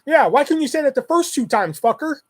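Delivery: high-pitched exasperated retort; pissed off. Retold or imitated. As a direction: snap back like a fed-up phone clerk. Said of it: "now I'm pissed".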